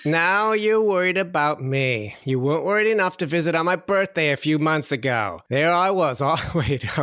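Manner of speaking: mother's lines slipping into Australian; a slipping Australian-tinged mother; accidental Australian accent. Acted. Guilt-tripping mother slides into an Australian accent. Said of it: "I'm Australian again".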